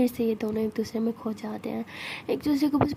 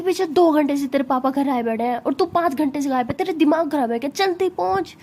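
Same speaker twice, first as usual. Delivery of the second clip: louder, panicked telling-off down the phone; louder frantic scolding of a missing friend on the phone; 3 semitones higher, 4 dB louder than usual. Acted. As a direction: chew her out in a panic.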